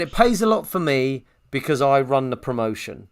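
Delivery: lightly attempted Welsh accent, near own pitch; toned-down second go at Welsh. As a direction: retell it in a tentative Welsh accent. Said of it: "I'm trying to do Welsh".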